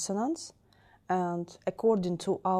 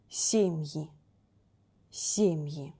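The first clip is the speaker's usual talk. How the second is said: Семьи stressed on first syllable е; 2 semitones lower, slower than usual. Shown as a demonstration. Teacher models where plural stress falls, on Е. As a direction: say сЕмьи slowly apart, weight on е. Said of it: "in form of plural, е will be stressed".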